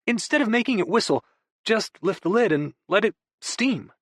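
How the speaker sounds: hammed-up guru; mock deep wisdom. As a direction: deliver it like a profound truth. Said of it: "as if imparting some deep wisdom".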